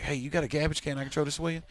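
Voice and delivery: quick line with "garbage" as GAB-idge; garbled garbage. Retold or imitated. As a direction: say "garbage" without its r, casually. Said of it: "I called it garbage".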